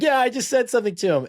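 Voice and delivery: high, quick, giddy quote; retold excited boast. Drunk fan high-fiving everyone, imitated giddy boast. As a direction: brag in a rush to everyone nearby.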